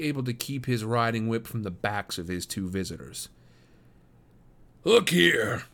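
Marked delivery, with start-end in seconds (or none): 4.8-5.6 high, loud angry interruption; angry father. Acted. Fuming farmer striding up to two suitors, angry. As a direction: break in on them sharply.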